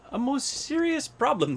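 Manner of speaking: grave pronouncement. A narrator's reading. Elephant pronounces on bald head.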